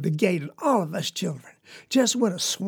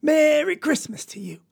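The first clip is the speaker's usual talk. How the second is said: high, long-held holiday holler; yelling; 7 semitones higher than usual. Acted. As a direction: holler the greeting out high and stretched. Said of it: "waving them two chickens and yelling".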